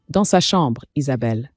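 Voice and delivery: "Dans sa chambre, Isabelle" with each syllable pressed; every syllable stressed. A narrator's reading. Husband insisting to his wife, pressing each syllable. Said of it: "Il a appuyé sur chaque syllabe".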